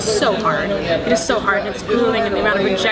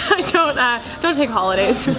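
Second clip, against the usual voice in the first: laughing; 3 semitones higher than usual. Real, not acted. Laughs at her own habits.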